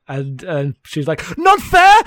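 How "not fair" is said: very high, loud mock scream; imitated scream. Wife screaming back at her husband, imitated scream. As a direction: yelp it back in mimicked outrage. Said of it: "And screams that three times".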